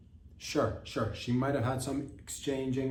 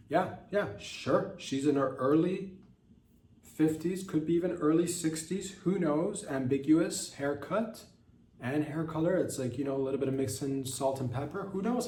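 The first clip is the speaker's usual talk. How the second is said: higher, bouncy gossipy voice; mock gossip; 4 semitones higher than usual. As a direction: gossip about her age like a busybody. Describing a professor, raised voice.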